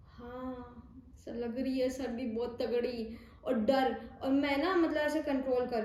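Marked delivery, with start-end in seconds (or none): 0.1-3.2 shivering, heavy hoarse हाँ; ठंड से भारी आवाज़ में हाँ कहो. Shown as a demonstration. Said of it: "हाँ भी ऐसे भारी हो गई मेरी". (भारी, ठिठुरती आवाज़)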